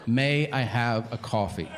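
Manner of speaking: slow, spaced-out "May I have a coffee"; insistent repeat. Retold or imitated. Customer repeats his order to the cashier, insistent. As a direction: ask it slowly and deliberately, word by word.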